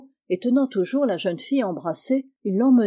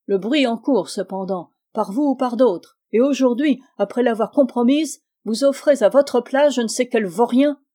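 colère montante, plus forte; rage contenue; 3 semitones higher, 5 dB louder than usual. Acted. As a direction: cracher son mépris. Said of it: "une rage concentrée". (la mère enragée accuse Malisov)

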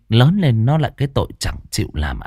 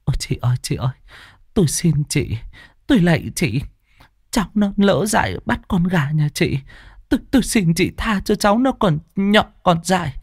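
pleading; 7 semitones higher than usual. Acted. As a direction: beg for mercy, humbly. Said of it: "van mà lạy người ta". (van xin khẩn khoản)

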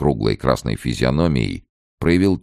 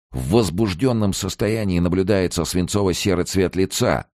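ordinary delivery, nothing marked

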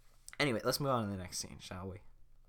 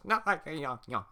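laughing; 6 semitones higher, 5 dB louder than usual. Acted. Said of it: "Farquaad laughs".

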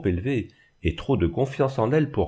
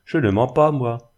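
desperate cry; 4 semitones higher, 5 dB louder than usual. Acted. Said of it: "s'écria-t-elle ... avec désespoir".

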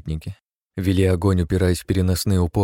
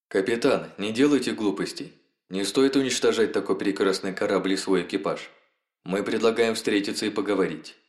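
alien message voice; 2 semitones higher, 4 dB quieter than usual. Acted. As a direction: read it as the eerie Hive. Alien text message read out.

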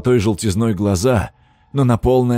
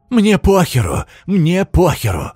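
manic repeated shout; 9 semitones higher, 4 dB louder, slower than usual. A narrator's reading. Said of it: "как заведённый повторял".

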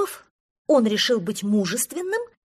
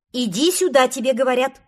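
loud call, higher, louder; 3 semitones higher, 9 dB louder than usual. Acted. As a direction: call him over firmly. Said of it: "снова крикнул Простодурсон".

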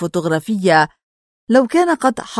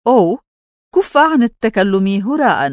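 raised, protesting voice; shouting; 3 semitones higher, 3 dB louder than usual. Acted. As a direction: call out in loud protest. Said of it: "صحت".

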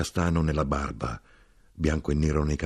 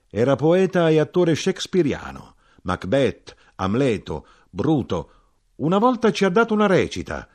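high, raised, proud announcing; excited recollection; 9 semitones higher, 6 dB louder than usual. A narrator's reading. Drinker recalling the actor father, high excited voice. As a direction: list his roles with high excitement.

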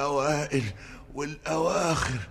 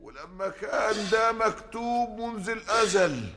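solemn proclamation; 6 semitones higher than usual. Acted. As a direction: proclaim it like a high priest. Priest performs the wedding rite.

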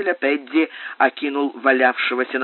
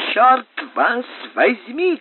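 high, slow, drawn-out curse; angry shouting; 10 semitones higher, slower than usual. A narrator's reading. Someone cursing behind the door, shouting. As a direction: cry out the curse, pitched way up. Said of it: "кричал кто-то за дверью".

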